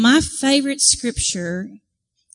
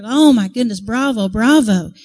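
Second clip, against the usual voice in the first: mock hearty acclaim; cheering crowd; 5 dB louder than usual. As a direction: cheer like an applauding audience. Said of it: "they're just cheering".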